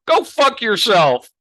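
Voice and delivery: mock snappy insult. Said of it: "and he says".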